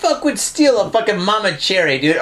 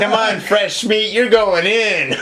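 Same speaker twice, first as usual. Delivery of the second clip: feral wasteland raider; 3 semitones higher, much slower than usual. Acted. Guards taunting new jail inmate.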